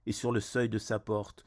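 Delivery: measured poetry reading with pauses between phrases; solemn verse delivery, line by line; poem recitation. Acted. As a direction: recite it evenly, in a narrow pitch range. Recites their own poem.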